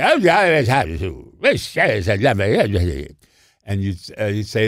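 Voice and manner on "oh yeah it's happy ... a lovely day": mumbled Tallulah impression. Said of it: "you couldn't quite make out what she was saying".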